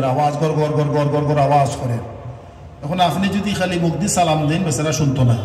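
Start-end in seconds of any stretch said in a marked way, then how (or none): 0.4-1.4 repeated "gor gor" of a running machine; machine rumble imitation. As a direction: imitate a droning machine with rapid syllables. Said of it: "মাঝখানে ওটা machine চলে".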